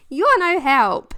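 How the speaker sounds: mock exasperated. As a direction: fling it at mum in mock despair. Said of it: "I'm like".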